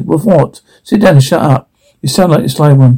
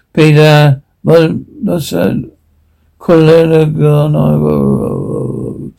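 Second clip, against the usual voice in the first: Latin prayer. Acted. Monk starts praying in Latin.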